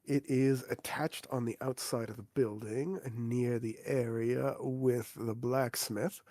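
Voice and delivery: a hint of a prim innkeeper, measured. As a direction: innkeeper explaining the services to the new adventurers, lightly voiced and polite. GM voices the innkeeper.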